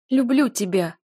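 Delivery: desperate cry of love. Acted. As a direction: blurt it out high and loud. Heroine confesses.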